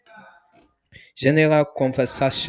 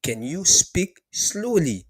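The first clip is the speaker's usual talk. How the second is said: higher, slow demonstration of slowly; slow model; 7 semitones higher, slower than usual. Shown as a demonstration. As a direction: say it slowly as you mean it. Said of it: "It means".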